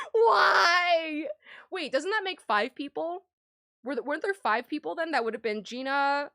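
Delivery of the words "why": exasperated wail. Pretend. Exasperated by the answer.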